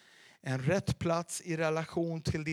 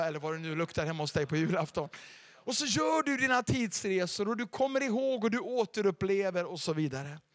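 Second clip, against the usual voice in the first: ordinary talk, nothing marked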